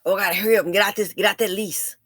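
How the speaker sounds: fast, frantic imitation of a widow scrambling; mock rushed widow. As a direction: rattle it off like a panicked widow. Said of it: "If your man dies today, what would you do?".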